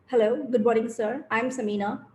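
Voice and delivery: confident, moderately low-pitched self-introduction; heavy voice. Shown as a demonstration. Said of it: "heavy voice".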